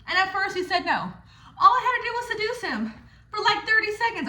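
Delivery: laughing through the words. Real, not acted. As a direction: giggle while telling it. Laughs while telling.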